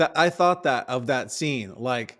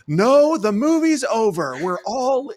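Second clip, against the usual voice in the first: much higher, louder, cutting them off; mock outrage; 8 semitones higher, 5 dB louder than usual. Moviegoer overrules the other viewers, loud mock outrage. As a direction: shut the crowd down indignantly. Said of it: "people go".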